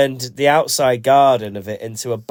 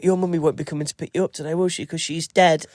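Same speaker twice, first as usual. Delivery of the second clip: mock sing-song taunt; 5 semitones higher than usual. Taunting like a schoolteacher.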